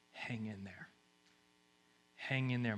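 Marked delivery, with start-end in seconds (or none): 0.1-0.9 much softer, hushed comfort; God's whisper. Pretend. God whispering to a weary believer, hushed. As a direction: barely voice "Hang in there.". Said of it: "he's whispering".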